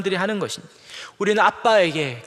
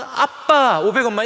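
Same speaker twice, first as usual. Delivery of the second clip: affectionate ask; 4 semitones higher, 5 dB louder than usual. Retold or imitated. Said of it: "이렇게 가야죠".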